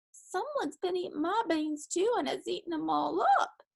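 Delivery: put-on little bitty high baby voice; squeaky baby bear. A narrator's reading. Bear cub finding his beans gone, baby squeak. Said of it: "squeaked the bear cub in his little bitty baby voice".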